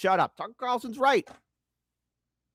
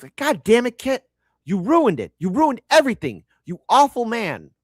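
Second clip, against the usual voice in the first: louder, higher mock complaint; hammed-up mock anger; mock outrage; 4 semitones higher, 4 dB louder than usual. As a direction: fake fury at a spoiler.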